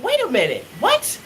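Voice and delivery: what jumps very high; stunned double take. Retold or imitated. Mom startled by her son, sharp high what. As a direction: catch yourself in disbelief.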